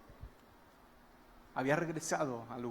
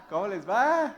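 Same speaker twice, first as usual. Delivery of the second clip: loud, higher mock holler; teasing call; 5 semitones higher, 8 dB louder than usual. Jesus teasing the fishermen from the shore, playful shout. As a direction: call out with a rising swoop. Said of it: "los ve de lejos y les grita".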